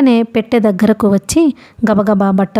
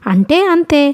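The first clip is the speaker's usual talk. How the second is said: curt toss-off; 7 semitones higher than usual. A narrator's reading. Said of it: "తల ఎగరేస్తూ విసురుగా అన్నాడు".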